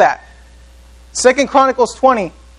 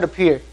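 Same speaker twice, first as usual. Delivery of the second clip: "appear." said softer, set apart after a pause; stressed word; 5 semitones lower, 5 dB quieter than usual. Shown as a demonstration. Preacher pointing the congregation to the word, stressed softly. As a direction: drop the voice and weight the word "appear.". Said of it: "Notice how I said".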